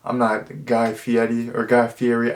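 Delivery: ordinary delivery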